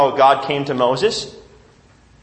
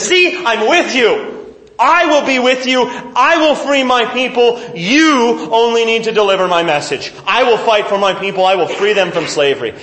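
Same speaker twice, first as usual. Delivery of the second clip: steady him, as God promising he will act; reassuring God voice; 5 semitones higher, 3 dB louder than usual. Acted.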